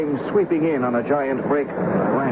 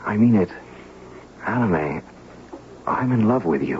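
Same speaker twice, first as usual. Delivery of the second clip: whispered confession. Acted. Love confession to Alan A.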